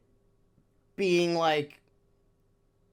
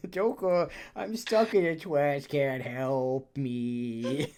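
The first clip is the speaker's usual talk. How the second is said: Morgana voice; 3 semitones lower, 4 dB quieter, slower than usual. Retold or imitated. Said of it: "Explain the Morgana voice".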